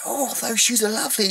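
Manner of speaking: high, put-on gushing voice; gushing imitation. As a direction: squeal it like a ditzy admirer. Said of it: "And it was like".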